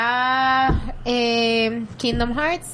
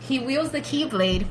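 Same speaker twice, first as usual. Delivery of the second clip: spanglish; 4 dB quieter than usual. Real, not acted. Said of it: "Perdón que esté hablando Spanglish".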